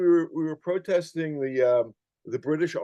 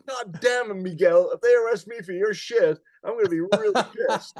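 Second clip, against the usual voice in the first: mock exasperation; 4 semitones higher than usual. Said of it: "I remember I was like".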